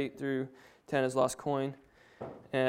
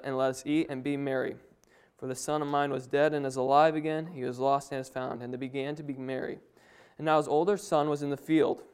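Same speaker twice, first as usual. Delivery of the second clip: scripture reading. Acted. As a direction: read the passage to the congregation. Reads the parable aloud.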